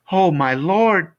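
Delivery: high, loud, slow wail of dismay; stretched, high-pitched exclamation; shocked cry. Acted. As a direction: cry out in horror, drawn out. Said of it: "Missus Griffin cried".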